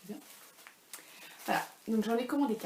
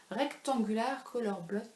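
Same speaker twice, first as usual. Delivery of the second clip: French-accented English. Real, not acted. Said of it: "Vous remarquerez mon accent anglais".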